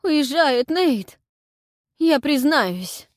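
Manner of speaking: high, loud, slow panicked wail; frightened babble. A narrator's reading. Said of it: "лепетал испуганно Анхель".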